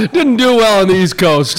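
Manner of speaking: talking through laughter; giggling out the words; laughing. Real, not acted.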